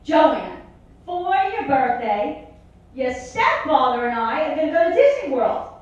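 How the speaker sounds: mock sugary mother; mother's voice. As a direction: break the news sweetly. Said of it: "she goes".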